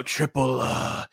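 lightly mocking wrestler impression; hint of a wrestler's promo cadence; Triple H. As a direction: drag it out with an 'uh' after each word. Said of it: "played off of Triple H".

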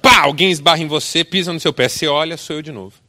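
excited preacher telling the story; lively storytelling. A narrator's reading. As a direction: build the scene up with energy. Retelling the second bump, heated.

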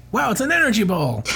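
mock excitement. Comic line read mock-excited.

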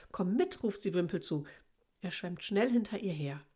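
measured read-aloud with lilting character lines; storybook narration with lightly lifted dialogue; children's story reading. Acted. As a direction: read a picture book to young children.

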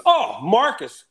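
high, loud, drawn-out glee; mock-thrilled exclamation. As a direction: imitate him relishing the name. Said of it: "he goes".

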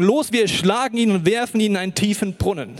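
laut und aufgebracht vorgelesen; laute Brüder. Acted. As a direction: wie eifersüchtige Brüder laut anstacheln. Brüder planen Mord, laut gelesen. (die Brüder hetzen laut gegen Josef)

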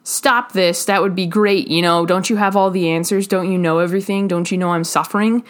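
mock him like the prisoner on the cross; mocking taunt. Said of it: "of mocking Jesus and saying".

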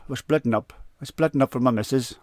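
half-hearted attempt at an American accent; Bill Gates. Podcaster poorly imitating a tech billionaire announcing his split, badly faked accent. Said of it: "That's, that's my Bill Gates accent".

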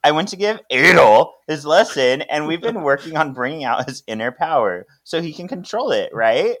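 acted excitement. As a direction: play someone excitedly justifying themselves. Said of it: "Paige is all excited".

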